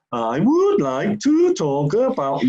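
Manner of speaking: intonation all over the place, pitch jumping every word. Showing what speaking with bad intonation sounds like: erratic jumping intonation. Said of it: "your intonation's all over the place".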